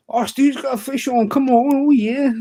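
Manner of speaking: high, loud whooping spectator; excited cheering. Retold or imitated. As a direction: imitate a friend cheering on the catch. Acts out friend cheering at home.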